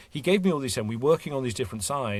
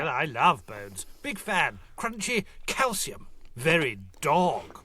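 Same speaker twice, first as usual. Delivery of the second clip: slow, high, cheerful tiger; 3 semitones higher, slower than usual. Acted. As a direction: savor it like a sly tiger.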